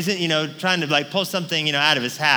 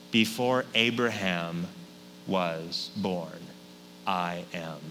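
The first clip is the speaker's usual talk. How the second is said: hushed solemn; 9 semitones lower, 8 dB quieter, slower than usual. Acted. Jesus' solemn answer to leaders.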